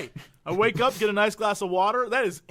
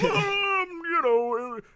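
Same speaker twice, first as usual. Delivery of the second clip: mock know-it-all; 5 semitones higher than usual. Mocking a diet article's claims.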